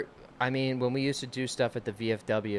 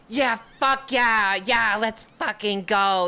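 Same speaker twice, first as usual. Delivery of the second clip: put-on much higher, loud, slow drunken whoop; rowdy cheering; 10 semitones higher, 5 dB louder, much slower than usual. Ladies' night crowd cheering back at the comic, rowdy whoop.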